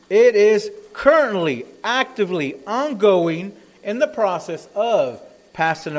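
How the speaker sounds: emphatic sermon delivery with weighty pauses; forceful preaching. Real, not acted. Preacher warning the church the world is passing away, forceful. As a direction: hammer each phrase home to the congregation.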